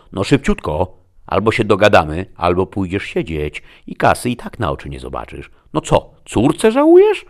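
loud, impatient bullying; pushy threat. A narrator's reading. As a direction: press them hard, voice rising at the end. Destiny threatens him to open safe. (głośno, ponaglająco, z groźbą)

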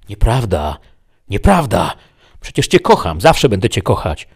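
loud, high-pitched desperate denial; close to breaking down. A narrator's reading. Man denying he killed his beloved, near breakdown. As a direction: protest it with rising desperation. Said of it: "był bliski załamania".

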